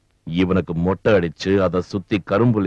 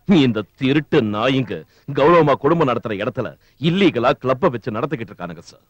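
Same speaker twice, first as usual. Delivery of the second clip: indignant outburst; 5 semitones higher than usual. Acted. Officer angrily argues with superior.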